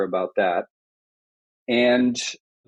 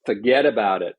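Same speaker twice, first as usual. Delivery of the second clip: New York accent, lightly put on; a hint of a New York accent. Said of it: "I'll say in my, you know, best New York accent".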